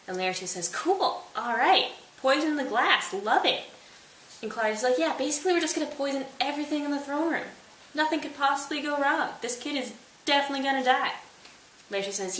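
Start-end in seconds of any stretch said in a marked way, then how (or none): 0.7-3.6 eager Laertes. Acted. Laertes gleefully agrees to poison. 5.0-11.1 smug villain. Acted. Claudius gloats over the murder plan.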